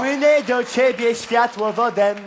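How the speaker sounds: floaty dreamy voice. Acted. Surreal client floating in.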